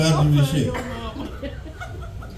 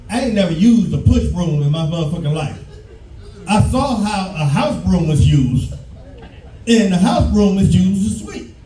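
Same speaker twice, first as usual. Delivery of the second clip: usual speaking voice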